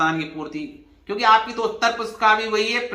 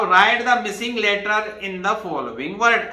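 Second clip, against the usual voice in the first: slow reading; 3 semitones higher, much slower than usual. Shown as a demonstration. Teacher reads question out slowly.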